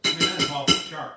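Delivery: talking with mouth full; words round a bite of food. Real, not acted. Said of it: "I'm gonna talk with my mouth full".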